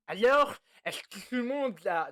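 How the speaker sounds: léger essai de voix de personnage façon Simpsons; voix de prof. Acted. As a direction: une voix de prof à peine marquée. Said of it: "faut que j'arrive à faire la voix du mec dans les Simpsons". (légère imitation de voix de dessin animé)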